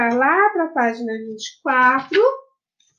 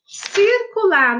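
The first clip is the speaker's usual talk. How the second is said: "circular" slow, drawn out, higher; stress on circular; 5 semitones higher, much slower than usual. Shown as a demonstration. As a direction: lean on "circular" slowly so they get it. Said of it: "teacher stressing the task". ("circular" bem devagar e enfatizado)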